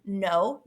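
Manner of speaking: "no" slowly, as a lone syllable with a long O; slow, separated "no" to show the vowel; syllable sounded out. Shown as a demonstration. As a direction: draw out the O in "no". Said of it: "you hear the O".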